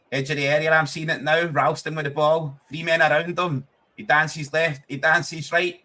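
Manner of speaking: mock play-by-play. Mock live play-by-play of a replay.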